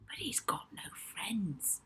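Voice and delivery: soft unvoiced whisper; slow hushed aside; Rocky whispering his pity to Molly. A narrator's reading. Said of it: "whispered Rocky".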